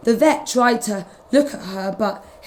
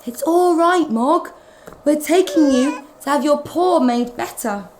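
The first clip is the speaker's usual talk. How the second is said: put-on soothing young girl voice, a touch higher; lightly voiced Debbie; 5 semitones higher than usual. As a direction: reassure the cat gently. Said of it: "Debbie said".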